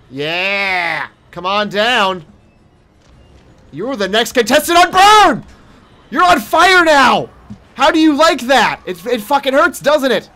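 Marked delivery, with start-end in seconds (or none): 3.7-10.3 higher, louder hammed-up host taunt; mock game-show host. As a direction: gloat like a cheesy TV announcer. Game-show taunt at burning monster.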